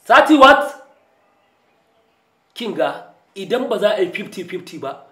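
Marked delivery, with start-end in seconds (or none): 0.0-0.9 loud, high, outraged question; shocked outburst. Acted. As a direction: explode in disbelief. Shocked at the low bribe offer.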